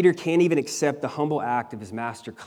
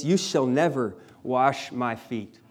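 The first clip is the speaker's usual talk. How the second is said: slow, firm refusal with weight on never; adamant and forceful; slower than usual. A narrator's reading. Peter refusing Jesus at the foot washing, slow and adamant. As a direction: plant each word slowly, leaving no room to argue. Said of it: "even more adamantly and forcefully".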